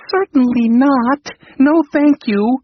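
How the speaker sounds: high, loud refusal; exclaimed refusal. A narrator's reading. King exclaims his refusal to the computer, loud and high. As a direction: refuse with alarm. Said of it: "exclaimed the king".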